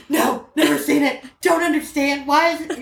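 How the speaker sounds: high, slow, emphatic denial; mock-bewildered childlike protest; clueless kid. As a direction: play a child flatly disowning it. Child denying any knowledge of word.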